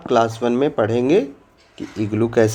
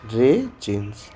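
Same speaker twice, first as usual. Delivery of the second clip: slow model word; 4 dB quieter, slower than usual. Shown as a demonstration. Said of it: "क्या कहते हैं?".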